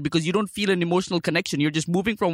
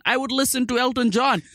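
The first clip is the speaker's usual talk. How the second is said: exasperated shout; 6 semitones higher than usual. Real, not acted. Frustrated rant about the songs.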